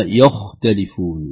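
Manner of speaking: slow يختلفون with a faulty خ; wrong pronunciation. Shown as a demonstration. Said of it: "ولا".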